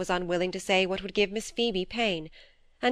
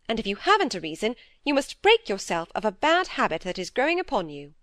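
a lightly voiced stern older sister, a bit raised; stern elder sister; 3 semitones higher than usual. Dorothy lecturing Phoebe about her sighing, lightly voiced stern scolding.

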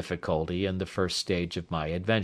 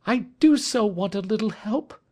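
higher, pleading woman's voice; distressed plea, higher pitched; 13 semitones higher than usual. A narrator's reading. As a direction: beg for help, still upset. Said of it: "she cried".

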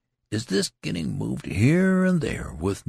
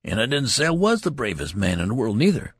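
higher and louder, rising anger; indignant; 8 semitones higher, 5 dB louder than usual. Acted. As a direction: build to an offended outburst. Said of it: "exclaimed the loud soldier indignantly".

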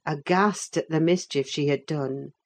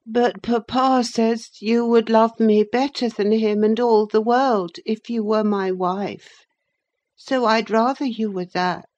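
put-on raised, insistent boy's voice; hopeful boy Linton; 6 semitones higher, 4 dB louder than usual. A narrator's reading. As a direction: press your case to your cousin.

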